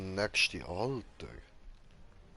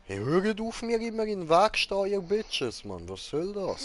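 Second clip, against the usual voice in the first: high, loud shout at the blockers; annoyed yelling; 9 semitones higher, 4 dB louder than usual. Real, not acted. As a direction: yell them out of the way. Yelling at characters in the way. (genervtes Anschreien)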